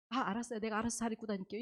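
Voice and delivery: fast, compliant little promise; acted polite front, hurried along; outwardly agreeable reply. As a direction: hide the annoyance behind easy agreement. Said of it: "하지만 겉으로는 달리 얘기하는 거예요".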